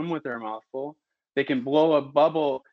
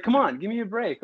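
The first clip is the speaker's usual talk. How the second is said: exasperated protest; 9 semitones higher than usual. Retold or imitated. Answering teasing relatives, exasperated and higher. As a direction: push back, fed up but playful.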